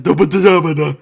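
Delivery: "d-" burst out loud and high, dubba-duh-dubba; loud nonsense babble. Retold or imitated. Friend suggesting food, the name lost in loud "d-" babble. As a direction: blurt "d-" syllables in place of the name. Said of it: "it would get worse".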